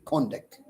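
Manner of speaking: conduct, first syllable CON stressed. Shown as a demonstration. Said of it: "on the syllable con".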